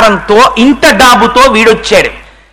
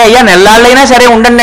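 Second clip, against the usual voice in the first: polite host invitation; 2 semitones higher, faster than usual. Retold or imitated. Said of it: "అంటారు ఫ్రీగా".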